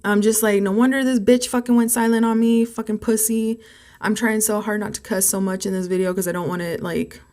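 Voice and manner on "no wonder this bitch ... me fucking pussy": retold indignant rant, pitched up; higher, heated venting; livid. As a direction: spit out the grievance, voice raised in pitch.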